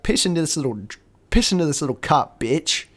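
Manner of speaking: mock-aggressive police demand; aggressive cop. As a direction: order him around like a bullying cop. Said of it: "The cop is very aggressive".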